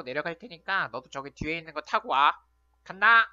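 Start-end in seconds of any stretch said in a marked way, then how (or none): 2.8-3.3 loud thrilled shouts; excited yelling. Acted. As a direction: yell on the sled ride. Sledding down, yelling.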